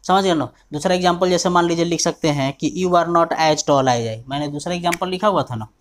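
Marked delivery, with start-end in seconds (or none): 2.8-4.3 slow dictation. Shown as a demonstration. Teacher dictates example.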